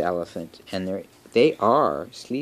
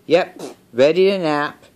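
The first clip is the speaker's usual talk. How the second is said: high-pitched story piglet answering; Piggy; 9 semitones higher, 4 dB louder than usual. A narrator's reading. Piggy answers Gerald about the nap, high character voice. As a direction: answer higher, falling at the end. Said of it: "And the piggy says".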